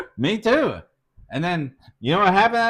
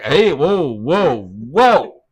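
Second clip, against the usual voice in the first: retold protest; 5 dB louder, much slower than usual. Retold halting partner's angry tirade.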